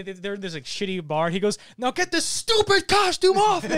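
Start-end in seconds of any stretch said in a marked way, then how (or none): 1.8-3.8 high, slow hammed-up shriek; mock villain screaming, every word dragged out; wacky screaming. Imitating Mysterio in the shitty bar, wacky screaming. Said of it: "weird, like, wacky screaming".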